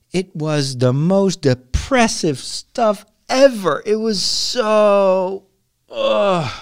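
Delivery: high, very drawn-out dismay; exasperated disgust. Real, not acted. Podcaster recalling depressing books read in class, dismayed. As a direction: drag the words out into a groaning ugh.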